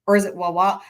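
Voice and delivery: Wawa said with stress moved to the second wa; curious retry of Wawa; trying another stress. Shown as a demonstration. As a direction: question whether it's wa-WA. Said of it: "where the syllables fall".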